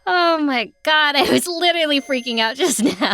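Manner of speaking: laughing with relief; breathless relieved laugh. Acted. Relief after thinking it real.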